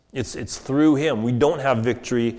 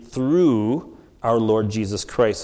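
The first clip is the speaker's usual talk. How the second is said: "through" drawn out, then a brief pause; stress on through; 4 semitones lower, slower than usual. Shown as a demonstration. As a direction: lean on "through" and hold it before going on. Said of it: "I emphasize the word "through".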